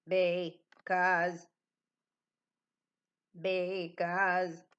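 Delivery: mechanical robot voice, flat monotone. Leading a tricky-word game for the kids, say the word in a robot voice. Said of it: "Say this word like a robot".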